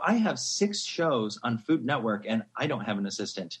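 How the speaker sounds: comically aggrieved, pitch climbing to the final question; mock bitter. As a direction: grumble it, then rise to incredulous outrage. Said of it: "all bitter about not having an assistant".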